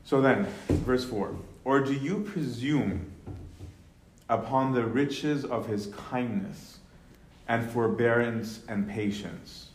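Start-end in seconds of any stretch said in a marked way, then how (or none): 1.6-9.7 "do you presume" read slow and lifted; slow scripture reading. Shown as a demonstration. Teacher reads verse four slowly to the class. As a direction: draw out the question as scripture.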